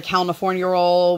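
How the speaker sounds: "California" said as "Cal-na-fornia" before "roll"; "California" with an extra n after the l; child's mispronunciation. Retold or imitated. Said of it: "she definitely says it that way".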